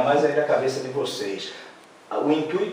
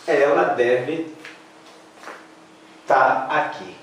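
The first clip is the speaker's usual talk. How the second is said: slow colloquial take; slower than usual. Shown as a demonstration. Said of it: "Posso, né".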